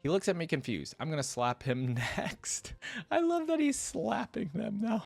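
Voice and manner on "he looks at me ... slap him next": measured first-person storytelling; story narration. A narrator's reading. Hero grumbling to himself about the steps, lightly acted narration. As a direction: read it as the hero's running thoughts.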